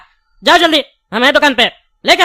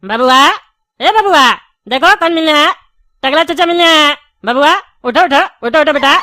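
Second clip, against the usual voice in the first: coaxing wake-up calls, slightly raised; calling to wake. Acted. Shopkeeper urged to try waking the sleeping child, calling out. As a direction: keep calling the child to get up. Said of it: "इतना जोर से चिल्लाने पे".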